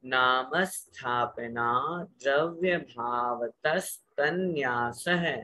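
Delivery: slow, measured chanting of the whole sutra; slow full sutra recitation. Shown as a demonstration. Teacher reciting the full sutra for students to repeat, slow. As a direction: say the full sutra once slowly, word by word. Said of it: "एक बार पूरा सूत्र बोल रहा हूँ".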